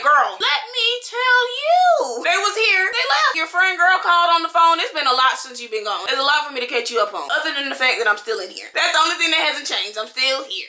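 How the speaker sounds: unload everything on mom, fed up; exasperated catch-up. Retold or imitated. To her mom back at the store, high exasperated sass. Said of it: "I'm like".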